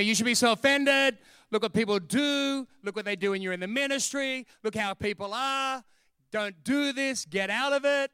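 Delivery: needling devil urging someone to quit. Acted. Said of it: "So the devil comes to me".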